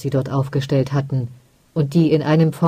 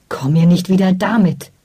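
mildly raised, half-shouted rebuff; angry shout; 2 semitones higher than usual. Acted. Ostwan rebuffing his mother, mild angry shout. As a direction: push her away with your voice. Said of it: "schrie er".

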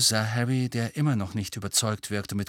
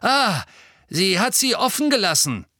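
gleeful; 10 semitones higher, 5 dB louder than usual. A narrator's reading. Filch gleeful at the door.

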